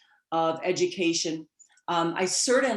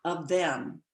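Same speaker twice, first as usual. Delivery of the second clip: quoting grandmother. Retold or imitated. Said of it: "She said to me".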